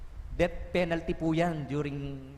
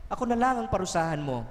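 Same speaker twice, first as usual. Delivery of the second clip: higher-pitched retold plea to God; angry pleading; 5 semitones higher, faster than usual. Parent offers to be punished instead of the child, angry pleading. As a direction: imitate a parent's angry prayer. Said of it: "Galit na galit, sinusumbatan ng Diyos".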